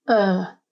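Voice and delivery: "er" alone as the stressed syllable; stressed final syllable. Shown as a demonstration. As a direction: isolate a firm "er". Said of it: "stress or emphasis is placed on the final syllable".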